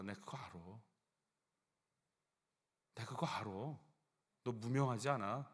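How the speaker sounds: soft, hushed comfort to the grieving; tender voice of God. Retold or imitated. God comforting a weeping believer, soft and tender. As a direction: speak it gently, like a whisper of assurance. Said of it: "이러시는 것 같아요".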